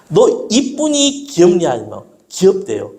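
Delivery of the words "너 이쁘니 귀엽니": playful question. Retold or imitated. Father questions daughter in story.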